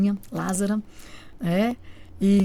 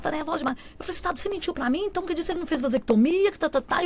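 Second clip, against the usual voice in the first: retold nervous accusation; 7 semitones higher than usual. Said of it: "eu fiquei muito nervosa".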